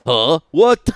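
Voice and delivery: sudden startled what; surprised what. Real, not acted. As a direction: jolt with surprise. Surprised reaction.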